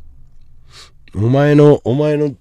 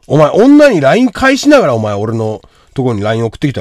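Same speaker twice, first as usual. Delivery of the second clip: loud, accusing rant; raised-voice telling-off; indignant scolding; 6 dB louder than usual. Real, not acted. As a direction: tear into them, loudly. Scolding the viewer for messaging.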